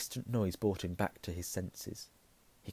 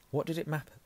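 usual speaking voice

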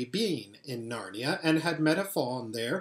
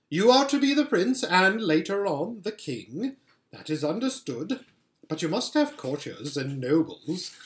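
a hint of a sweet, commanding queen; lightly voiced White Witch queen. Queen asking Edmund to bring his siblings, lightly regal. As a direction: coax the boy like a regal enchantress.

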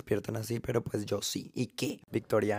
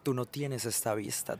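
teasing softly; 7 dB quieter than usual. Real, not acted. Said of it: "repeated for emphasis".

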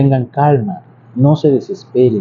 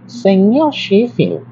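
high, slow, nasal "Señor Sheffield"; nasal nanny voice; 8 semitones higher, much slower than usual. Retold or imitated. Teacher imitating the nasal nanny calling her boss. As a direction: put the voice right up in the nose like the nanny. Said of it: "hacía esto con la nariz".

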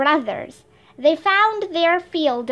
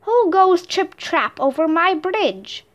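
troll growl; 4 semitones higher than usual. Acted. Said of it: "growled the troll".

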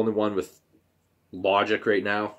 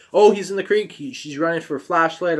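imitating mom's frantic cry, higher and louder; panicked mom; 7 semitones higher, 4 dB louder than usual. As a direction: echo her panic.

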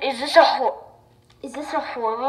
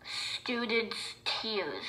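reading the label; 12 dB quieter, much slower than usual. Shown as a demonstration. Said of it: "that says".

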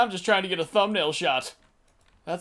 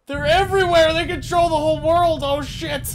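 high, loud mock-panic cry; panicked yell; 9 semitones higher, 5 dB louder than usual. Real, not acted. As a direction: shriek it like the world is ending. Gamer panicking at swarming enemies.

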